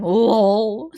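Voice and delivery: high, breathless laugh; laughing at what chat is watching. Real, not acted. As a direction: break into laughter. Laughing at the stream.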